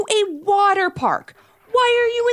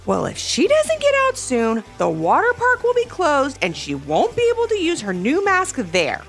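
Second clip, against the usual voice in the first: put-on high boy's voice, mildly raised; pointed kid's announcement, only slightly louder; pointedly extra loud; 7 semitones higher than usual. A narrator's reading. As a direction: project a little so a sister overhears. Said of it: "Levi said extra loud so his sister would hear".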